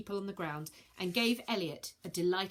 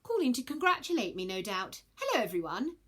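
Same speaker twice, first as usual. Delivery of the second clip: smug; 4 semitones higher, 4 dB louder than usual. Acted. Virgo smug.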